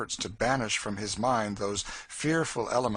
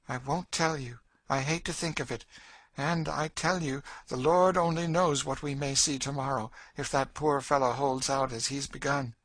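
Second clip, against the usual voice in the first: raised, intense storytelling voice; hint darkly at horrors, pitched up; bitter, ominous Cassie; 7 semitones higher, 3 dB louder than usual. Acted. Woman tells girl of their master's cruelty, bitter and ominous.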